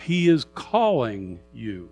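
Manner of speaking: "calling" leaned on and drawn out; slow down and weight the word calling; heavy emphasis on "calling"; stress on CALLING. Acted. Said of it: "Big emphasis on the word calling".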